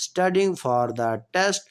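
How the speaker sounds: slow, clear dictation pace; slow classroom example sentence; slow example read. Shown as a demonstration. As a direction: spell it out slowly for students. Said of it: "teacher reading example sentence".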